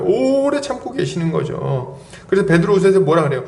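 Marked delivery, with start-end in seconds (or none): 0.0-2.0 오래 stretched very long, higher pitch; drawn-out emphasis. Real, not acted. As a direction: linger on 오래 to make the waiting felt. Repeats phrase, stretching the key word. ("오래"를 길게 늘여 강조)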